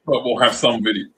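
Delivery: hiccuping mid sentence; talking through hiccups. Real, not acted. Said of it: "I'm hiccuping now".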